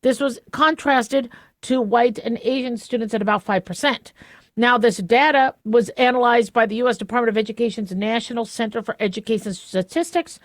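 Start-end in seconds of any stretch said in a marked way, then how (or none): 4.6-10.4 lisped s in "Statistics", s slushy like sh. Real, not acted. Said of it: "sorry about my lisp".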